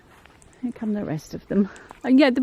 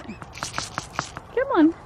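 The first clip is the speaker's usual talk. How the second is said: whispered coaxing; 8 semitones higher than usual. Real, not acted.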